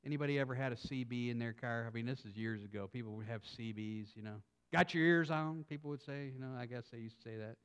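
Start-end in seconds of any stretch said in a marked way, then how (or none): 4.7-5.6 lightly put-on country twang of a CB caller. CB user checking who's listening, light country twang. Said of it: "say it in that country twang".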